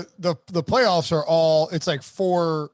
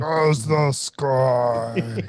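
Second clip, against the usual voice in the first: voice cutting out; 4 semitones lower, much slower than usual. Pretend. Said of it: "read it very slowly with your voice cutting out".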